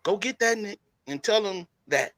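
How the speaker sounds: lightly acted movie tough-guy challenge; a hint of swaggering confrontation; Denzel. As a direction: send them off with measured, pointed pauses. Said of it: "I went Denzel on it".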